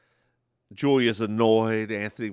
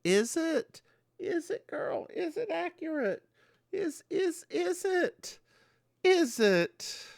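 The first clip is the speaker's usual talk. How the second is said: mock disbelief. Mock disbelief at historical accuracy.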